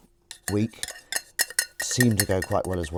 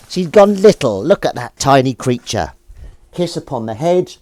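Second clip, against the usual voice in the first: cooing over cat; 4 semitones higher, 9 dB louder than usual. Real, not acted.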